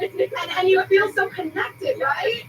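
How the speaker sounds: rising, slow, voice welling with tears; fighting back tears; close to tears. Real, not acted. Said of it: "now I'm about to cry".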